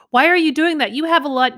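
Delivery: husband asks neighbor why she plants there, lightly puzzled. Retold or imitated. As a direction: ask like a baffled husband. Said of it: "he'll be like".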